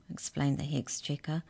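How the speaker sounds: usual speaking voice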